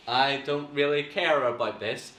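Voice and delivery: half-hearted, uninterested reading; low-energy, unengaged acting; not really doing anything. Shown as a demonstration. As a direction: mumble through it like you don't care. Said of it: "they're not really doing anything".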